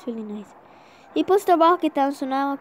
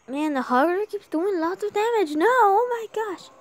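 loud, higher frustrated cry; frustrated shout; 7 semitones higher, 6 dB louder than usual. Real, not acted. Frustrated at losing the tower.

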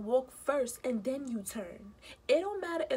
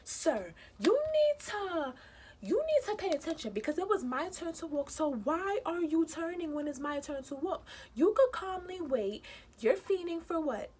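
mock scolding of driver; 4 semitones higher than usual. Scolding the cab driver who turned into her, indignant and raised. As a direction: tell the turning driver off, indignant.

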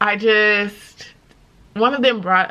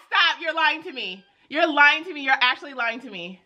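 excited disbelief; 6 semitones higher than usual. Real, not acted. Disbelief at accepted offer.

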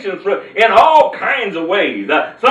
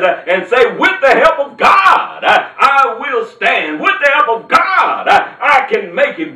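preaching; 2 semitones higher than usual. Acted. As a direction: preach it to the congregation with full fervor. Preaching God's faithfulness to listeners.

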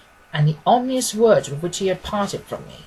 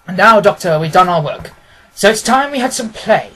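louder, brisk and commanding detective; a keen detective, louder and decisive; Holmes voice; 6 dB louder than usual. Acted. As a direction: speak as the sharp, confident Holmes instructing his friend. Holmes speaking in the story.

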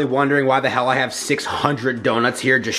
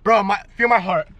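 shocked; 11 semitones higher than usual. Real, not acted. Shock after a scare.

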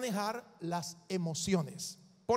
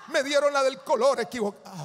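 laughing mock complaint; 4 semitones higher, 9 dB louder, faster than usual. Mocking petty complaint.

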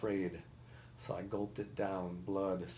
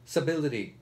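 loud, higher projected finish; raised voice straining to be heard; shouted repetition; 5 semitones higher, 8 dB louder than usual. A narrator's reading. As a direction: force the word out over the noise. Boy finishes word over the uproar.

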